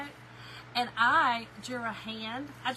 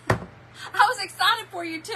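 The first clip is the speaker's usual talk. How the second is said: words squeezed out through laughter, high; laughing; 7 semitones higher, 6 dB louder than usual. Real, not acted. Apologizing to a viewer while laughing. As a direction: talk while still cracking up.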